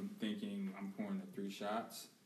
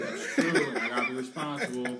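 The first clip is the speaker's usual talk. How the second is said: laughing; 5 dB louder than usual. Real, not acted. Laughing shout at friend.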